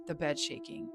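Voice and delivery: high, hushed frightened whisper-talk; scared. Retold or imitated. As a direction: boyfriend alarmed, telling her the bed shakes, frightened and high. Boyfriend scared of shaking bed.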